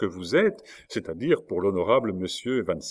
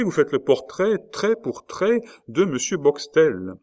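amazed; 7 semitones higher, 3 dB louder than usual. A narrator's reading. President astonished at Rosa's exact portrait, voice leaping up. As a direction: voice jumping high in astonishment.

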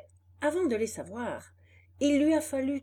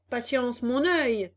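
angry boss; 3 semitones higher, 5 dB louder, slower than usual. Acted. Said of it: "hurla le patron".

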